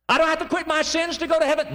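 high, disbelieving question; incredulous doubter. Retold or imitated. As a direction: ask as if it can't be that easy.

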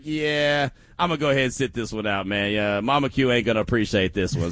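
reluctantly bowing out, voice dropping; hesitant. Acted. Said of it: "if there was any hesitation".

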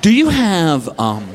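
low, halting, painfully awkward request; hammed-up reluctant dad, pitched very low; embarrassed asking. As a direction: drag it out with long, mortified pauses. Embarrassed dad asks store clerk.

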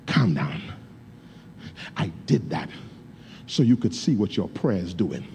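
a steady God calming him; voicing God. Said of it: "And God says".

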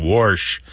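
"Warsh" said as worsh, R before sh; added-R pronunciation. Shown as a demonstration. Host repeating the caller's puzzling word, "Warsh" said as worsh. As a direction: say "Warsh" with an R put in. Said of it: "That's a little bit confusing".

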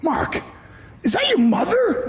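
high mocking teammate voice; teasing teammates. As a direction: imitate a buddy asking in a high voice. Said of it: "They go".

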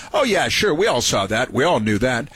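mock dismissive. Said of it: "And now she says".

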